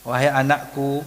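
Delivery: put-on tender call to one's child; gentle parental address; affectionate, gentle. Shown as a demonstration. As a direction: say it lovingly, unhurried. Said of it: "panggilan penuh kasih sayang".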